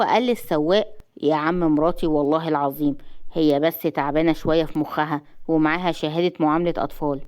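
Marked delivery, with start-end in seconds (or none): 1.2-7.2 lightly voiced man, lower pitch; husband placating a driver. Husband excusing his wife to the taxi driver, low and matter-of-fact. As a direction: lower your voice a touch, explain it away.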